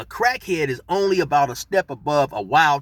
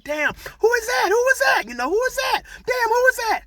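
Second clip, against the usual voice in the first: excited shout. Retold or imitated. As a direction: holler it, laughing amazed. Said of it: "We're like".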